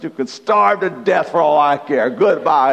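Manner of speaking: hammed-up scolding of a pet; mock angry holler. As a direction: pastor re-enacting yelling at the rabbit, mock angry. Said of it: "I hollered at the rabbit".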